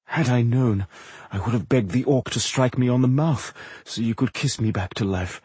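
lightly voiced weakened charmer; flirtatious wounded impresario. Wounded impresario flirts with his healer, a touch weakly. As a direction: flirt gently while still hurting.

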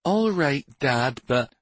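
put-on high boy's voice, cut off; objecting boy. A narrator's reading. Son starting to object to Dad, reluctant. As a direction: begin a high-pitched objection.

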